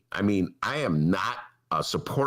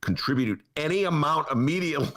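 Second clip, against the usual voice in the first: mock urgency; 8 semitones higher than usual. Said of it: "This is all in bold".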